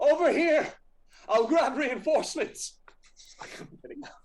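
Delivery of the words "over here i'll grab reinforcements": very high, loud shout. Storyteller voicing a character who hears a voice, shouting. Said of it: "he shouts out".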